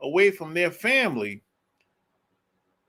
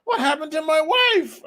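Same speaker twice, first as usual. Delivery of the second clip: bewildered husband; 8 semitones higher than usual. Retold or imitated. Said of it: "They're like".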